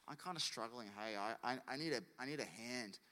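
soft, low confession in prayer; honest plea. Acted. Believer praying honestly to God, soft plea. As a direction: quietly admit you need help.

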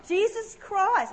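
put-on high, slow, foreign-accented exclamation; botched accent that lands sounding Chinese; loud, drawn-out mock Chinese-sounding accent; accidentally Chinese-sounding accent. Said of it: "I sounded like Chinese then".

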